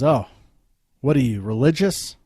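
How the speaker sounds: put-on loud, challenging drunk jab; a half-acted loud jeer at the pastor; mock yell. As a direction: bark the question across the aisle. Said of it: "Kinda yells at the pastor".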